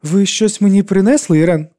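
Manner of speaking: високий надірваний голос; запитати високо, ніби з хворим горлом. A narrator's reading. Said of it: "Її голос звучав надірваним". (надірвано, голосно й високо)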